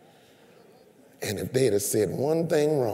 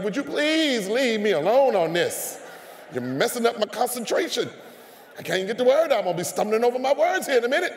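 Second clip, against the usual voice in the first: exasperated plea; 9 semitones higher, faster than usual. Retold or imitated. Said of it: "And I'm like".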